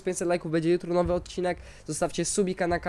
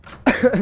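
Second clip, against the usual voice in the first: cough; 7 semitones higher, 6 dB louder than usual. Real, not acted. Coughing fit mid-commentary.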